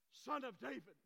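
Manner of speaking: high, loud call over the crowd; acted insistent cry. Hushed blind man calling Jesus again, acted insistent cry. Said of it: "he cried out all the more".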